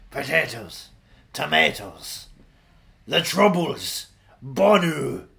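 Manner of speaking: mock Irish accent. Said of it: "what's your Irish accent?".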